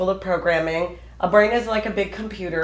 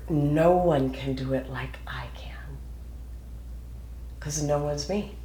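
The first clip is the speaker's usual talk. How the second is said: slow, confident whisper; whispered affirmation; 3 semitones lower, 6 dB quieter than usual. Shown as a demonstration. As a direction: whisper it to yourself, slowly. Affirming self-talk, softly.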